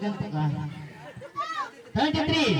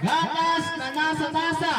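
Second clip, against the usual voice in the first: slow and clear; 4 semitones higher than usual. Shown as a demonstration. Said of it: "Ito naman si Rigor".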